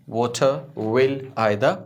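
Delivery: water will either very slowly, no Rs; water will either as "wota wil aai-da"; silent R. Shown as a demonstration. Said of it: "इसका हमने आर नहीं पढ़ा".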